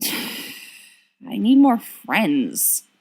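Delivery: slow, sighing self-pity. Acted. Sirius sighing to friends that he is lonely, slow and mopey. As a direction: drag it out on a long sigh. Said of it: "Sirius sighs".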